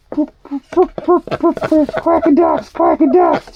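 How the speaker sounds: high, playful sing-song cooing at the pets; lilting high chant of silly words. Real, not acted.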